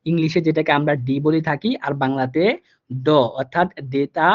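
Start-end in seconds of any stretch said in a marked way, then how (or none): 2.9-4.3 ড said slowly and clearly like Bengali d; slow letter demo. Shown as a demonstration. Teacher to students, slowly naming the German letter. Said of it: "ড এর মতো উচ্চারিত হবে".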